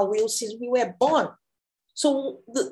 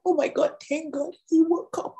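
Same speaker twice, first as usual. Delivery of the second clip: high, relieved outburst with a laugh before it; excited; 7 semitones higher than usual. Acted. Elijah rejoicing that the child woke up, excited. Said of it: "So Elijah was excited".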